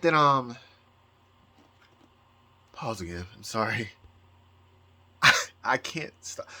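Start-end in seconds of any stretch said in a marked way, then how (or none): 2.7-6.5 real crying. Real, not acted. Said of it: "here's my excuse for the tears".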